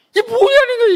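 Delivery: preacher rebukes a congregation's half-hearted prayers; exasperated outcry. Real, not acted. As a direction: hit it like a pulpit thunderclap. Preacher's outburst at weak faith.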